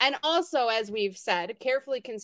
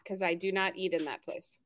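whispered aside; hushed under the breath; 4 semitones lower, 5 dB quieter than usual. Real, not acted. Aside about avoided place.

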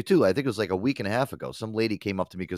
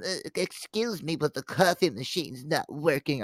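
slow, higher whiny customer imitation; mock customer voice; 6 semitones higher, slower than usual. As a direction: play a fussy customer, slowly. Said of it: "customers keep coming up to me".

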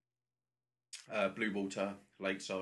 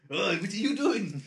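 startled passenger; 9 semitones higher, 7 dB louder than usual. Pretend. Acting the startled victim.

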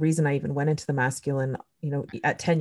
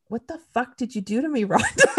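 higher, laughing through the words; half-laughing mock outrage; laughing disbelief; 7 semitones higher than usual. Asking her friend Rhonda what she did, laughing. Retelling shock at sudden pain.

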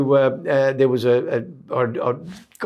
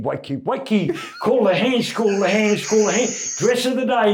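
higher sing-song wake-up call; the silly voice; 8 semitones higher than usual. Retold or imitated. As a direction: pipe it like a goofy bosun. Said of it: "do the voice on him".

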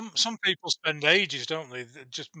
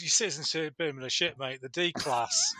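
quick, blunt mock put-down; Alexander voice. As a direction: dismiss him like a cocky mate. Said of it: "Alexander the Great goes".

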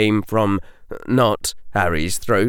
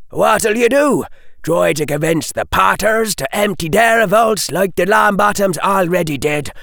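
put-on louder, pressing, hard-edged old fighter; gruff soldier arguing; 7 semitones higher, 4 dB louder than usual. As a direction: hammer the logic home to a grieving friend. Alistair lectures Dumbledore, held voice.

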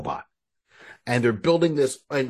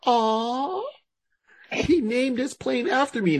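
touched heroine; 12 semitones higher, slower than usual. Retold or imitated. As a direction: coo it, flattered. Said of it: "she was having a".

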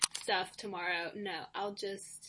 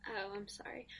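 whispering; 7 dB quieter than usual. Acted. Mock-sorry reply to friend's complaint.

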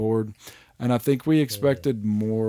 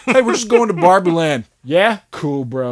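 high, loud breezy dude voice; mock casual bro; 6 semitones higher, 9 dB louder than usual. Mocking the game's characters, breezy bro voice. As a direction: play it like nothing is wrong. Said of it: "game characters".

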